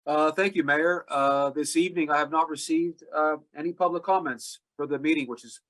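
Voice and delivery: hoarse, congested allergy voice; rough, stuffed-up voice from allergies. Real, not acted. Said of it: "I sound like a dying vacuum with my allergies".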